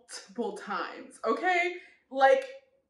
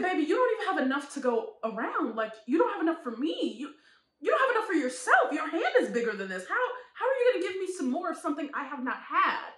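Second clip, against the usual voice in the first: sassy; 4 semitones higher, faster than usual. Retold or imitated. Acted sassy comeback.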